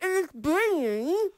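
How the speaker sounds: slow through a lump of dough; careful words round a mouthful; mouth full. Real, not acted. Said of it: "Through a lump of dough".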